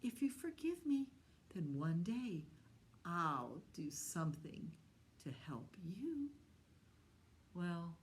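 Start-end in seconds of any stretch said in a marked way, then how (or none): 0.0-6.3 little mouse voice. Acted. Mouse begs the lion for forgiveness, high squeaky pleading. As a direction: beg like a tiny frightened mouse. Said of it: "And the little mouse said".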